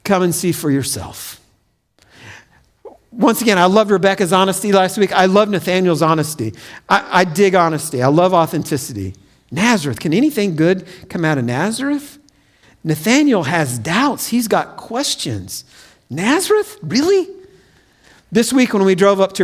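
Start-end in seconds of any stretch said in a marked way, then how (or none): 0.0-1.4 soft, low and unhurried; calm invitation. Acted. Philip answers the doubter with a soft, calm invitation. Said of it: "And Philip replies". 16.1-17.3 incredulous scoff. Acted. Mocking Nathanael's disbelief.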